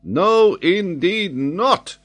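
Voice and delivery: high, loud and insistent; fired-up protest; renewed vehemence. Acted. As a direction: burst out, then slow and firm. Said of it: "with renewed vehemence".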